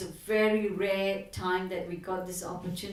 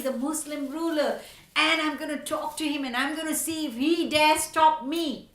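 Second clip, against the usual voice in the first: rising to a loud, eager battle cry; a preacher voicing a bold leader's call to march; fired-up rallying; 4 semitones higher, 4 dB louder than usual. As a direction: whip up the crowd with growing fervour. Chaitanya rallies devotees, rising fervour.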